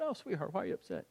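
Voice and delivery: put-on soft, concerned question to a child; hushed retold sympathy; tender parent. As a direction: gently coax an upset little one. Father comforting upset child, retold.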